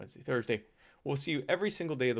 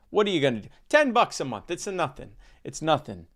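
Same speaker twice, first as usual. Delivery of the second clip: lightly voiced New Jersey politician, punchy opening; Ciccarelli; 3 semitones higher, 4 dB louder, faster than usual. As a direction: toss it off like a New Jersey governor. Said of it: "that's how the new governor of New Jersey talks".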